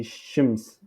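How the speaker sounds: "shims" closing on s, not sh; corrected "shims" with final s; prononciation corrigée. Shown as a demonstration. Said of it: "la correction est". (« shims » corrigé, s final)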